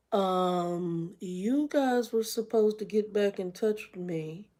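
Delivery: slow, deliberate words to a rude caller; slow, tight restraint; slow, restrained irritation. Retold or imitated. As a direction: spell it out slowly, holding back anger. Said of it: "this is where I was at".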